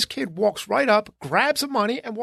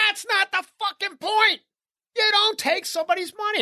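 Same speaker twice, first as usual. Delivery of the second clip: indignant; 10 semitones higher than usual. Retold or imitated. Man retells confronting a mother.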